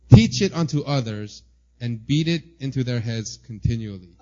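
solemn scripture-style reading; formal reading. Acted. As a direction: read it out with solemn weight. Reads Luther quote aloud.

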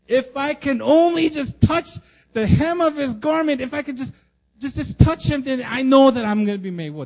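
high, loud, aching plea; desperate woman. Acted. The bleeding woman longing to touch Jesus' garment, high and loud. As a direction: reach out like the last hope.

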